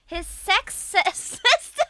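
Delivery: giggles breaking into the last word; can't finish for laughing; laughing through a mock Irish line; laughing mid-word. Shown as a demonstration. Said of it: "I'm just reading it in an Irish accent".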